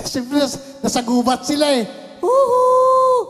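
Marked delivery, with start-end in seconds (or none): 2.2-3.2 high, loud whooping cry; hammed-up delighted whoop; playful Adam. Preacher playing Adam whooping back at Eve. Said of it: "Sabi ni Adan".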